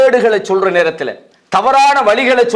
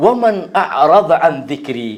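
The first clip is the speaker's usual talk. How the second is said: slow, lower-pitched Arabic recitation; Quran recitation; 4 semitones lower, slower than usual. Acted. Preacher answers with God's word, slow low recitation. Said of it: "அல்லாஹ் என்ன சொல்றான்".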